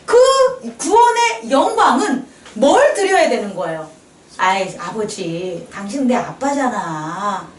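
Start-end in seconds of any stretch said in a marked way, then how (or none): 4.4-7.5 put-on childish plea. Congregant's imagined prayer to God.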